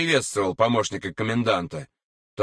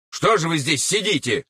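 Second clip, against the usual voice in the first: higher-pitched, indignant officer; exasperated, raised-pitch question; 6 semitones higher than usual. A narrator's reading. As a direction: scold them for sitting around. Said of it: "возмутился старший лейтенант".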